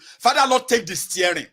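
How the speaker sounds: high, loud plea easing off; shouted prayer. Retold or imitated. Traveler begging God to drive, loud imploring start. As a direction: call on God urgently, high and loud at first. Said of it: "shout on Holy Spirit to come".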